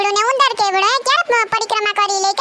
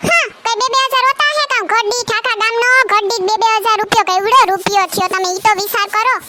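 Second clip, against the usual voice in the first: indignant protest. Acted. Haggling over donation amount.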